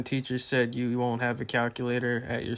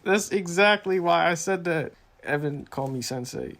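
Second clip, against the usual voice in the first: mock wise sensei voice; 7 semitones higher, 7 dB louder than usual. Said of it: "Nailed it".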